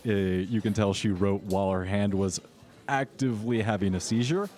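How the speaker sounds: ordinary delivery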